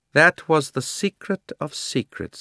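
loud, high, imperious queen voice; haughty queen's loud grievance; proud queen. A narrator's reading. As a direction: rant like a wronged tyrant queen.

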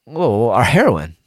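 a mock-panicked America yelping over its heroin. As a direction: cry out as if someone is grabbing your stash. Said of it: "And then America was like".

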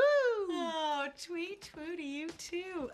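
dry mock-sweet sarcasm; sarcastic. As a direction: say it sweetly but mean the opposite. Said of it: "detect any sarcasm".

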